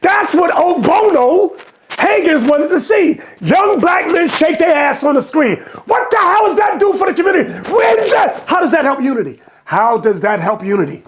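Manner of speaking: heated shouting rant; outraged rant. Real, not acted. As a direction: rail at the screen in disbelief. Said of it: "I'm just very emotional about this".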